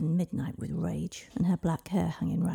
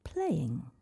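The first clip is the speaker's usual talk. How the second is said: dreamy. Acted. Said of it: "said the little girl dreamily".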